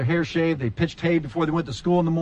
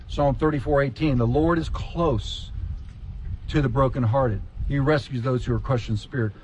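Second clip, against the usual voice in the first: lower, gentle reading; soft scripture reading; 4 semitones lower than usual. Real, not acted. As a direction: read it tenderly. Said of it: "I'm gonna read this to you again".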